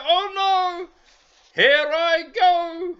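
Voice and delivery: put-on storyteller voices Lucky for children, high and eager; eager little bear. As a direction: play the bouncy toy bear itching to go out. Lucky thrown again.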